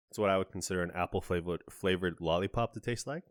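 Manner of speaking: talking with a numb, puckered mouth; words slurred by a sour-stung tongue. Real, not acted. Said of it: "this is really messing with my mouth, so mispronunciations will occur".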